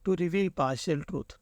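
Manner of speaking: slow. Shown as a demonstration. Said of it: "options में देखते हैं".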